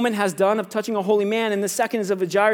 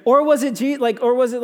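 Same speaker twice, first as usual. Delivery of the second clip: ordinary talk, nothing marked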